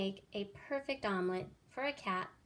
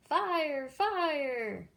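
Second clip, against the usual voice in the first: higher, louder false alarm; shouting fire; 6 semitones higher, 5 dB louder than usual. Acted. Jack yells a false alarm at the birds. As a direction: yell it to scare the birds off. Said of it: "he cried".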